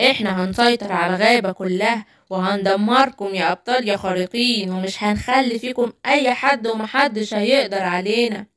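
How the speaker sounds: low, soft menacing villain voice; menacing villain threat. Acted. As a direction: threaten to crush every hero.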